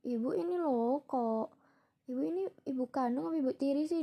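mildly whiny imitated grumble; grumbling complaint. Daughter grumbling to herself after mother scolds her, mild retold grumble. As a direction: replay a younger self grumbling about mother. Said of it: "grundel terus pakai bilang".

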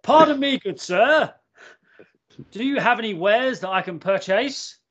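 high, overly polite mock-posh voice; mock posh gentleman. To the weed seller, a hammed-up posh gentleman. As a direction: ham up a prim toff asking to buy. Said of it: "you do not speak like that".

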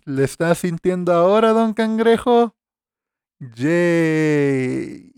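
high, slow silly puppet voice; squeaky goofy puppet character; goofy muffled sock puppet. Pretend. Addresses puppet-like figure in silly voice. (voz tonta de títere de calcetín)

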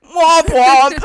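loud, high sing-song womp womp; mock sad womp womp. Mock sad trombone reaction.

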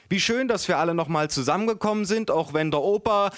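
high-voiced grandma addressing the family; storyteller's high grandma voice. A narrator's reading. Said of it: "sagte meine Oma".

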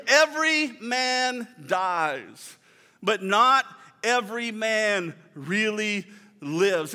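put-on slow, half-hearted Scottish accent on the quote; mild mock Scottish burr, drawn out. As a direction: try the line like Mel Gibson's Scot, slowly. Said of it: "it's really cool with a Scottish accent".

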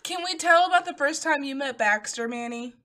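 high, loud, eager ask; excited request. Real, not acted. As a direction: burst out asking permission to tell a story. Eagerly asks friend to share story.

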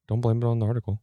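close-miked, breathy and boomy; too close to mic. Real, not acted. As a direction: lips right on the mic. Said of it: "Why are you talking so close to the damn mic?".

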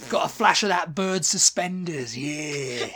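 pub bloke talking out of the side of his mouth; lightly voiced leering bloke, mouth corner. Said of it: "why do you talk out of the side of your mouth".

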